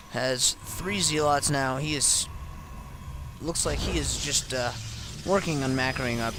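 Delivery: slow, yawning through words; fighting back a yawn. Real, not acted. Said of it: "I'm having a hard time not yawning".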